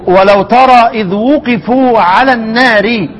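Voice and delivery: measured chanted verse reading; Quranic recitation. Shown as a demonstration. Teacher reciting the verse for students, measured chant.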